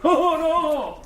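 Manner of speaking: high, nervous laughing oh. Acted. Accomplice fleeing the stranger, laughing nervously. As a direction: laugh in panic as he flees.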